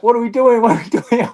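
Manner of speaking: a light mock of a confused woman; translator's confusion. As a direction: play her as baffled. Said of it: "she's like".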